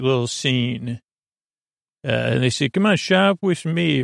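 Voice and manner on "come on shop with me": higher coaxing sales call; luring shoppers in, hammed up; pushy salesperson. Stall keeper calls to customers.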